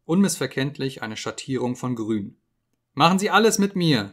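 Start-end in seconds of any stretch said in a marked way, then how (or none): 2.9-4.1 high, loud desperate cry; terrified scream. Acted. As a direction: beg in panic, voice shooting up. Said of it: "schrie er".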